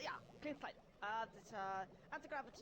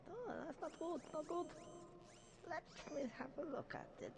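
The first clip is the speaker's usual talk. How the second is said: bad German accent for the professor. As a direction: lay on a clumsy German accent. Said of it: "It's a pretty bad German accent".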